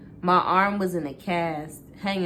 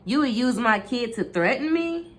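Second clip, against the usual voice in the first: flash of anger; 6 semitones higher than usual. A narrator's reading. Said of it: "A flash of anger returned".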